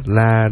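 "la" said with a flat, level pitch. Shown as a demonstration. Teaching the tones, a level "la". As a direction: hold "la" steady with no tone. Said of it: "không có dấu gì hết".

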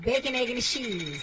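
"Bacon, egg, and cheese" run together; soft, unseparated "Bacon, egg, and cheese"; all one word. Real, not acted. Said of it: "saying this one word".

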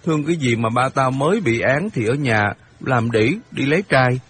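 put-on mildly heated boy making an accusation; lightly voiced indignant boy Hiệp. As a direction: protest with restrained outrage.

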